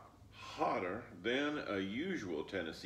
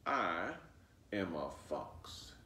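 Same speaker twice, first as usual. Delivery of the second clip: sly fox voice; 3 semitones lower, slower than usual. Acted. Fox introducing himself to Flossie, low and slow.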